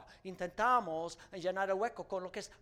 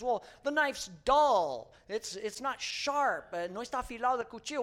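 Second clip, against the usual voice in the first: complaining Henry; 4 semitones higher, 5 dB louder than usual. Retold or imitated. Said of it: "And he says".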